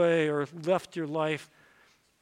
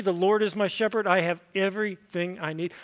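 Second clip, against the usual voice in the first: congregational recitation. Shown as a demonstration. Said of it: "Would you say that with me?".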